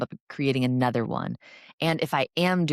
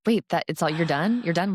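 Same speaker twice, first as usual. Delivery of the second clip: surprised patient; 4 semitones higher than usual. Retold or imitated. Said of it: "They're like".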